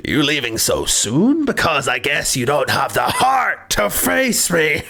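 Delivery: slow line broken by laughter; laughing reread. Retold or imitated. Rereading the card line aloud, laughing. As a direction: savor it, laughing as you go. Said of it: "That's really good".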